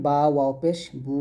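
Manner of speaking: recite, sustaining "বু" for one alif; drawn-out vowel. Shown as a demonstration. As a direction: hold the long oo of "বু". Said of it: "এক আলিফ পরিমাণ টেনে পড়তে".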